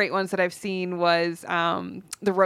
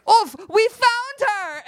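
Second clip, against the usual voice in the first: much higher, louder, slow mock yell; 6 dB louder, slower than usual. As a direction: bark it like a soldier in a comedy sketch. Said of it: "he just yelled".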